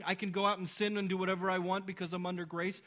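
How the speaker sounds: rushed, offhand mock of the excuse; quoting bad reasoning. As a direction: rattle it off dismissively. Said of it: "that type of reasoning".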